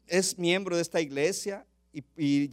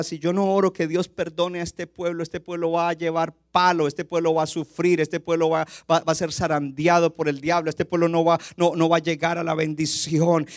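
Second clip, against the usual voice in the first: louder, pressing worry; Moses' urgent worry; 4 dB louder than usual. Acted. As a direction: plead the fear for the people. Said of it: "él seguro pensaba".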